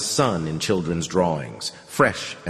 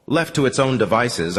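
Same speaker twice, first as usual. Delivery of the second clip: plain reading voice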